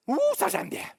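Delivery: high, loud cooing ouh of delight; squealing I like that; gushing delight. Acted. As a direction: coo over it like a shiny toy. Gushing over the screen.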